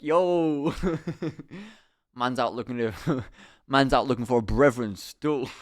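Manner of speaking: put-on laughing through a light London roadman accent; London roadman slang, half laughing. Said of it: "The Roman voice conquers all".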